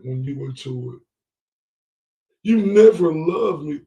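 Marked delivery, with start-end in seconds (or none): 2.4-3.8 mock whiny woman. Commentator mimics the crying woman.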